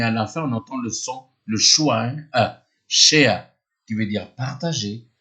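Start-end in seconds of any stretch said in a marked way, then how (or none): 2.9-3.5 British accent. Shown as a demonstration. Teacher contrasting British share with American. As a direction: share in British English, no R, ending on an E sound. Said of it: "Alors que l'anglais, on va dire share".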